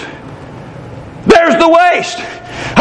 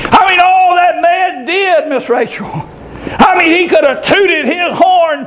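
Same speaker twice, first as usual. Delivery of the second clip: preaching; 3 semitones higher than usual. Real, not acted. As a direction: preach it big to the congregation. Preaching at full force.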